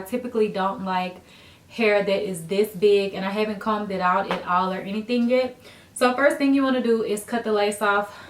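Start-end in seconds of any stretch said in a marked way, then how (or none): 5.9-8.2 breathless after running upstairs; out of breath. Real, not acted. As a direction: talk while catching your breath. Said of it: "I'm out of breath".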